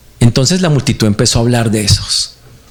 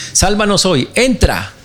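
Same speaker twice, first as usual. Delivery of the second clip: imagined crowd shouting; 6 semitones higher than usual. Retold or imitated. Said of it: "el que está gritando".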